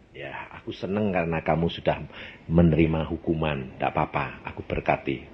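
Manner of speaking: a calm fatherly blessing; gentle voice of God. Retold or imitated. God's voice retold.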